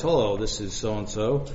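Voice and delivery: low, soft phone greeting; relaxed expert. Retold or imitated. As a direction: answer the phone calmly, low and easy. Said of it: "whole different sound to his voice".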